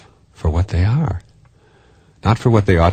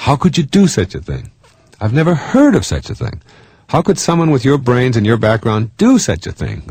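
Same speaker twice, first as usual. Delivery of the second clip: mock shocked disbelief; 7 semitones higher than usual. Mocking a scandalized partner.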